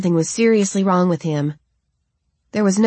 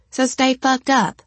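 higher, slow, biting retort; annoyed retort; 7 semitones higher, slower than usual. A narrator's reading. Angel snaps at stoic Philip, annoyed and biting. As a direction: throw it back at him, fed up. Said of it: "I retorted".

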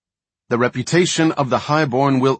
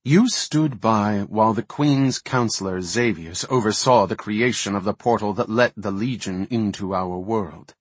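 stern accusing voice, rising; mounting rebuke; 2 semitones higher, 5 dB louder than usual. Acted. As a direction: build the accusation steadily. Malfurion rebuke.

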